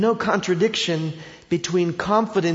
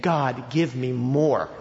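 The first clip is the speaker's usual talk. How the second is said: fervent prayer; 2 semitones higher, 4 dB louder than usual. Acted. Preacher voicing the believer who understands grace, building fervor. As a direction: pray hungrily, swelling as you go. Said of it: "You would be saying".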